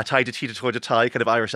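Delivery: lightly mocking a fake stage Irish accent; mock bad Irish accent. Author mocking the narrator's fake Irish accent, light stage-Irish parody. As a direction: parody a clumsy put-on Irish lilt. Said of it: "doing an Irish".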